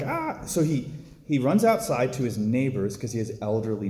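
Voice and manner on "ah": short, high-pitched "ah" of panic; mock panicked cry. Priest retelling a man's missile-alert panic, high mock-panicked cry. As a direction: imitate a quick yelp of alarm, kept light. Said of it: "so in this panic, he's like".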